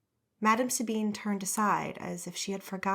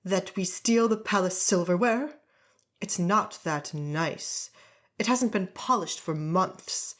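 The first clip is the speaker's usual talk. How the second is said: put-on indignant drunk nobleman; 3 dB louder than usual. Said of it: "indignant man say in a slurred voice".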